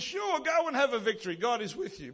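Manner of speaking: lightly mocking, feigned agreement; a little sarcastic. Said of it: "He's obviously being a little sarcastic".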